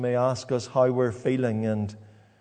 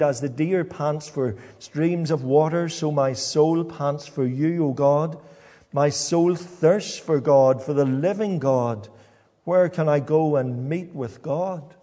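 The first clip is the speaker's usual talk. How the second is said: scripture reading. Acted. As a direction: lean into the longing as you read. Preacher reads Psalm forty-two aloud.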